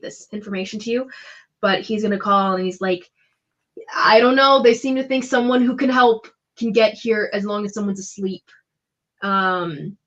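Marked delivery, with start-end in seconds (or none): 3.9-8.4 calling across. Acted. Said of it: "he shouts that across the sands".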